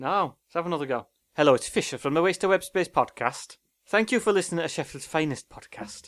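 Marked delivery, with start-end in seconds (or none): 1.3-6.1 put-on Welsh accent drifting near Irish. Reading a podcast promo line in different accents: attempted Welsh accent. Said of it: "Meant to be Welsh".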